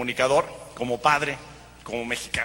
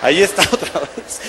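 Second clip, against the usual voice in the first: repeating the line through a laugh; entre risas. Retold or imitated. Repite al gringo entre risas. (repetido con risa, en tono normal)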